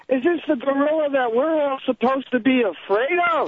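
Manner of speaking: mildly mocking bluster, pitch climbing at the end; lightly voiced blustering bully; loud drunk uncle. Nephew retells drunk uncle taunting the monkey, mild loud bluster. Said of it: "talking very loud".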